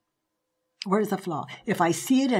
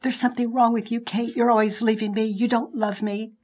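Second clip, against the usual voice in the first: husband's accusation; 3 semitones higher, 3 dB louder than usual. Retold or imitated. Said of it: "if he said".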